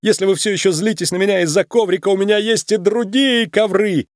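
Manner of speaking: high, frantic pleading; begging. A narrator's reading. Nick bargains while held over the ice pit, begging. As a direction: talk desperately for mercy. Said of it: "умолял Ник".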